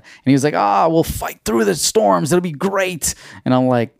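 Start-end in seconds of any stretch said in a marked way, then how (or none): 0.5-3.1 high, slow, breezy friend voice; slow, high-pitched carefree buddy. Retold or imitated. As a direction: drawl it out like nothing can go wrong. Friend's reckless reply voiced.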